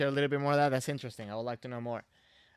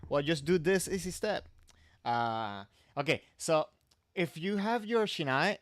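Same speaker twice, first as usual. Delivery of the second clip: hard sell ad. Pretend. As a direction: pitch it like a TV ad. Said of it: "I guess I'm gonna say it like a commercial".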